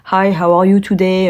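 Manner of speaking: English in a deliberate French accent. Shown as a demonstration. Showing how she spoke English after being mocked, French accent. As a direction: say the English greeting with French sounds. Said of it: "je parlais anglais avec l'accent français".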